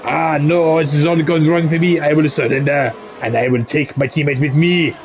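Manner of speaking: put-on French accent, resigned surrender; French-accented mock surrender. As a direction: play a defeated Frenchman, lightly hammed-up French. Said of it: "That is my French accent".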